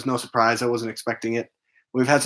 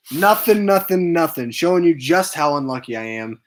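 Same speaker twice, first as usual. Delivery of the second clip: louder, higher, fed-up repeats of Nothing; exasperated loud; 4 semitones higher, 5 dB louder than usual. Real, not acted. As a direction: throw up your hands and call out Nothing. Unlucky hatch, exasperated.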